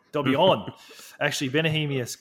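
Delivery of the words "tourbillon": Tourbillon said firmly as TOOR-bee-yon; French pronunciation. Shown as a demonstration. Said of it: "No, it's tourbillon".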